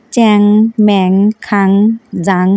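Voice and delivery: চ্যাং, ম্যাং, খাং, জাং as clipped, nasal-ending Rangpur syllables; Rangpur dialect sounds. Shown as a demonstration. Vlogger showing viewers how Rangpur speech sounds, with চ্যাং ম্যাং খাং জাং spoken as sample syllables. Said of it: "এইভাবে বলতে হয়".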